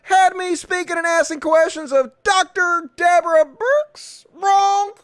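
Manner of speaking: high, fast mock Trump voice reading his post; mocking Trump tweet. Host mocking the president's tweet in a high put-on voice. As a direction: sneer it out as a parody of the president. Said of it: "So he's like".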